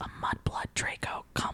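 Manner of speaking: soft, hushed, breathy whisper under the breath. Retelling a fan story scene where Lucius whispers to Draco: imitating a whisper. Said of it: "helps him up and whispers".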